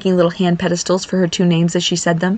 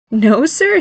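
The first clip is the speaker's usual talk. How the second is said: higher, satisfied refusal; pleased; 6 semitones higher than usual. Acted. Mother tells son name is final, pleased.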